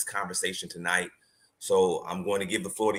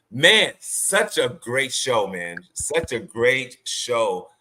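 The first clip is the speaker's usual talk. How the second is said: slow, louder, emphatic praise; enthusiastic praise; 4 semitones higher, 5 dB louder, much slower than usual. Real, not acted. Host hyping the guest's episode, slow and louder. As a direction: savour each word with enthusiasm.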